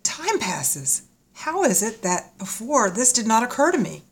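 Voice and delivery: high, very soft woman's voice; hushed realisation. Acted. She suddenly notices time passes, hushed and wondering.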